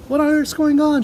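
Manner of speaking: high, loud alarmed cry; a child crying out in alarm; cried out. A narrator's reading. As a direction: Matilda crying out to her father. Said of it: "she cried".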